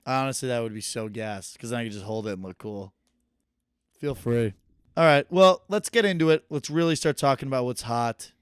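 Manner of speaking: muffled bad earbud audio; garbled like through water; underwater. Real, not acted. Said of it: "it sounds like you're underwater".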